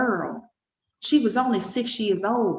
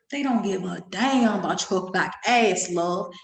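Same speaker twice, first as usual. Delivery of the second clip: lower repeat; 4 semitones lower, slower than usual. Shown as a demonstration.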